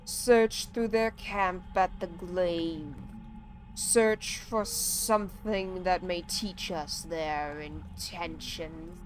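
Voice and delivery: slow, solemn tree person voice; drawn-out ancient tree speaking gravely; Onu. Acted. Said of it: "I am slowing down Onu's dialogue".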